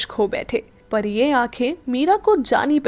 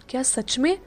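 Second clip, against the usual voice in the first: softly; 6 dB quieter than usual. Acted. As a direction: ask it softly under the breath. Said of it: "धीरे से कहा".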